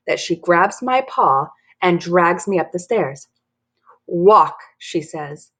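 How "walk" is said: mildly angry, loud command; stern order. Acted. Mad mom orders Dory up the stairs, stern.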